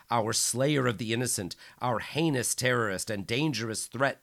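loud, high triumphant proclamation; bellowing. Acted. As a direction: proclaim it over the crowd. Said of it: "Micheletti bellowed".

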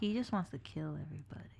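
whispering. Real, not acted. Conspiratorial aside.

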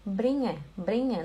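"bringe" with soft ng, no hard g; correct pronunciation of bringe. Shown as a demonstration. Teacher showing students "bringe" without a hard g, careful. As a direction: say "bringe" with the ng melting into the e. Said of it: "não é bringe".

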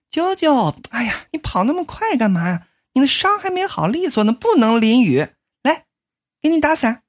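put-on fussing young maid. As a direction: dote on him like a worried girlfriend. Maid Susie fussing over him.

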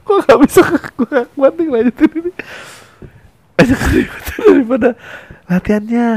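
can't stop laughing. Real, not acted. Comedian laughing too hard to continue.

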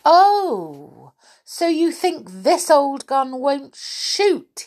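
high, loud indignant retort; storybook indignation; angry teddy. A narrator's reading. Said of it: "He was very angry".

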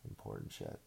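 breathy sarcastic whisper echo; whispered mock echo. Shown as a demonstration. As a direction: repeat it under your breath, mocking.

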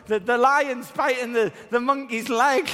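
high, loud urgent call; urgent little boy. Retold or imitated. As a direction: call out like a small boy in alarm. Son reports lion biting monkey.

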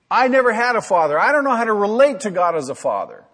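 a lightly played wounded voice; mock plaintive excuse. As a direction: voice the wounded objector. Voicing an excuse from a listener.

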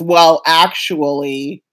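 slow smug drawl; mansplaining well actually; condescending. Retold or imitated. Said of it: "he goes".

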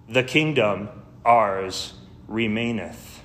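slow, spaced-out verse; solemn spoken hymn; hymn verse recitation. Real, not acted. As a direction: recite each phrase with weight, pausing between.

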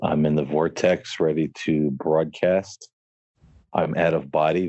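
otherworldly spirit voice, lightly put on. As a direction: speak as a ghost coming through. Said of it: "as a spirit voice".

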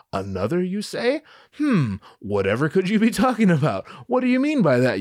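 exaggerated puzzlement, pitch climbing; mock curious. Luke prods Yoda about the hint, mock curious.

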